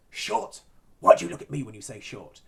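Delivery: hammed-up movie Napoleon in a bad French accent, protesting. Napoleon figure snapping back at the villain, bad French accent. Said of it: "in a very sort of stereotypically bad French accent".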